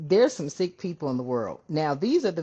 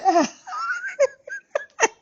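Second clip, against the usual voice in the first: very high, squealing laughter; helpless laugh; 3 dB louder than usual. Real, not acted. Cracking up as the reading comes in hot, high laugh. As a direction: dissolve into high giggles.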